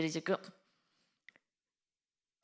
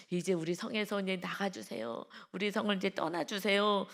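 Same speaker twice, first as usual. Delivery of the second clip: groveling plea. Retold or imitated. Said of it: "간청하면서 굽신굽신하며".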